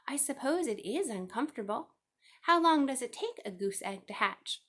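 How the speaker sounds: a sleepy piglet asking a question; curious young pig. A narrator's reading. Wilbur asks the goose.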